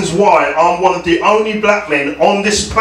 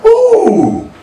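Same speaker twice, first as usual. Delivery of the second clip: mock surprise; 3 semitones lower, much slower than usual. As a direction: fake shock at a stranger in the shower. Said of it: "going up to someone in the shower and saying".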